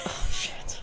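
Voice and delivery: whispered oops; hushed dismay. Retold or imitated. Mother caught out by her cursing toddler, hushed. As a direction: mutter it under your breath, no voice. Mother's startled reaction, retold.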